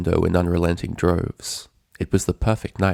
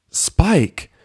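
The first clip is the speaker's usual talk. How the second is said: higher, loud cutting shout; angry snap; 11 semitones higher, 5 dB louder than usual. A narrator's reading. Twilight snapping at Spike to stop him. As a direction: cut him off sharply. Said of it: "The anger in Twilight's voice was unmistakable".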